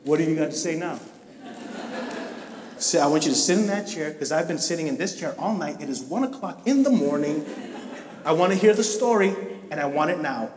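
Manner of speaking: lightly voiced stern parent waiting up; a hint of a mock scolding parent, arms crossed; imitating stern parent. Preacher voicing a parent scolding a late child, mock stern. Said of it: "like our parents did".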